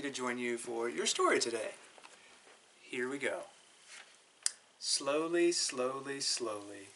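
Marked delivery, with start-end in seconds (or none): 4.8-6.9 slowing down. Shown as a demonstration. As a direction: let the words fade and drag. Slowing fading title read.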